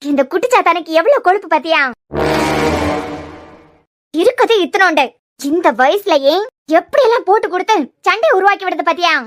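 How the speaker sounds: heated, forceful complaint; indignant rant. Acted. Aunt rants to Charu about tattling child, indignant. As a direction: rail about the little troublemaker.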